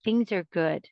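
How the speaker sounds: calm self-reassurance. Shown as a demonstration. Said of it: "You stop it immediately and say".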